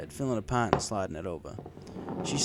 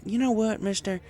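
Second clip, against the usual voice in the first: higher, louder mare voice, resolved; declaring farm mare; 13 semitones higher, 6 dB louder than usual. A narrator's reading. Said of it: "she declared".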